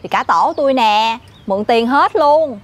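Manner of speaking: deliberate, projected emphasis; speaking up on request. Acted. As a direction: draw it out so others hear. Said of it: "Bây giờ bà nói lớn tôi một cái nha".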